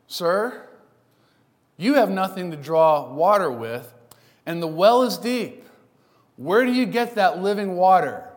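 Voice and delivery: snarky. Retold or imitated. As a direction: needle him with a smirk.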